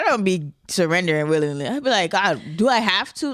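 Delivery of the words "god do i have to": put-on teenage daughter whine. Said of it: "talking like a teenage daughter talking to her dad".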